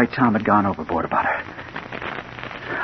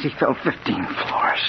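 hushed horror; 3 semitones higher, 7 dB quieter, slower than usual. Acted. Horrified narration after fall.

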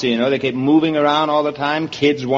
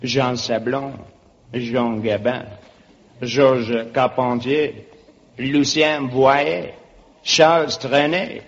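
slow, put-on French accent; 3 semitones lower, slower than usual. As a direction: savour it like a hammed-up Frenchman. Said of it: "It is La Belle France".

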